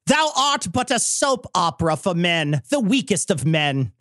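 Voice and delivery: put-on slow, hammy old English insult, rising to high cries; hammy Shakespearean roast; old-timey voice. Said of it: "your worst old-timey voice".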